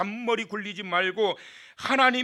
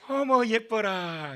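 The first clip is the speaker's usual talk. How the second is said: doting coo; 3 semitones higher, slower than usual. Acted. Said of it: "남편도 어떻게 돼요?".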